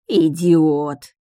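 loud, angry outburst; a loud, venomous exclamation; hissed insult. A narrator's reading. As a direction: spit out the insult. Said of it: "зашипел советник".

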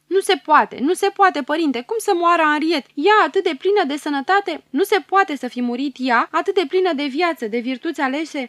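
high, loud cries of denial; anguished disbelief. Acted. King hears princess is dead.

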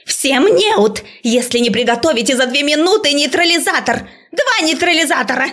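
high, loud yelled order; furious order. A narrator's reading. Professor screaming orders at the class. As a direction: yell at the whole class.

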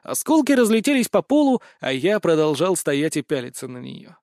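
plain reading voice

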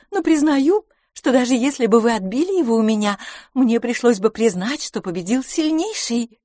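playful woman teasing her rival; lively young woman. A narrator's reading. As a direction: voice Miss LaFosse up high and amused. Miss LaFosse voiced by narrator.

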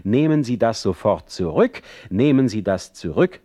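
a jealous man calling out a threat; called out. Acted. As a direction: raise your voice and push the repeated demand. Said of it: "und ich rief".

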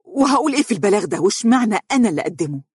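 high, fast, outraged question; resentful, rapid exclamation; indignant. Acted. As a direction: protest it in disgust. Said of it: "هتفت ساخطة".

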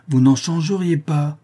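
same denial pitched high, insistent; forceful contradiction. Acted. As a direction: cut in and override his protest. Father repeats over son's interruption.

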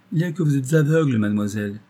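brisk, mildly stern verdict, fast. A narrator's reading. Doctor telling the girl she is blind, mildly stern and fast. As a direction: deliver the blunt truth with a touch of severity. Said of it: "dit sévèrement le docteur".

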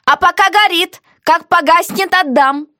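defiant heroine. Acted. Heroine voiced in dialogue.

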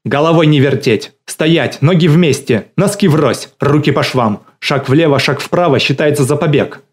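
loud, high barked commands one after another; drill-sergeant yelling. A narrator's reading. Галина drilling her dogs during the call, loud, high parade-ground yelling. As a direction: bellow orders like on a parade ground. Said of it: "И тут же заорала".

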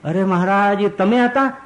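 put-on high, startled old woman's cry; astonished realization. Vajiba realizes to Maharaj that it was him, high and astonished. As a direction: suddenly realize who it was, pitch jumping high.

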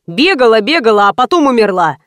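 irritated complaint. Acted. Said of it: "злился Семён".

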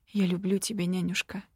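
soft, tender quiet declaration; quiet confession. Acted. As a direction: say it softly and tenderly. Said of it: "тихо призналась этой женщине".

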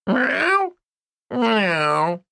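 high spoken meowing; cat meow. A narrator's reading. Cheeky cat meows at the girl, high meow. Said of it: "заявил наглый котяра".

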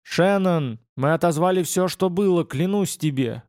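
a touch of a pleading cry; exclaiming. Acted. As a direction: swear it urgently. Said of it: "воскликнул Мартин".

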